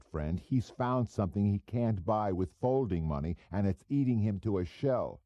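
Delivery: a hint of a cocky small-time operator; pushy hood Goebel. Goebel needling the narrator at dinner, lightly voiced cocky hood.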